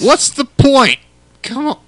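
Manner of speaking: put-on squeaky high quavering old voice; high old person voice. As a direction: play a fed-up old man. Acting old people in ad.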